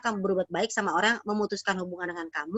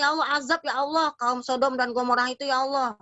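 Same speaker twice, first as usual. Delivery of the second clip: fed-up prophet's prayer; 4 semitones higher than usual. Acted. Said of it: "Nabi Lut gedeg sama umatnya".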